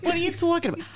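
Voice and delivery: high, loud laughing protest. Real, not acted. Laughing mock indignant.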